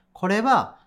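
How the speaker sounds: slow, deliberate word-by-word Japanese rendering; ゆっくり訳し読み; slow back-translation demo. Shown as a demonstration. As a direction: spell out the backward translation slowly. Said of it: "どうなるかって言ったら".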